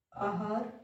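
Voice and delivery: आहार begun on आ, not ए; आ sound opening आहार. Shown as a demonstration. Teacher reading out the options, आहार begun with आ. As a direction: say आहार with an open आ first. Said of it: "ए और आ संबंधी जो है गलतियाँ".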